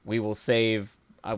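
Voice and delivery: ordinary talk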